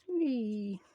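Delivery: soft, falling little "whee"; a quiet whee sliding down in pitch; playful whee. Real, not acted. Crafter to herself while gluing, playful whee.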